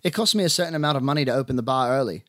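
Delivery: put-on lightly barked lines in an Irish accent; brusque bar owner with a hint of Irish. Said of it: "she barked in an Irish accent".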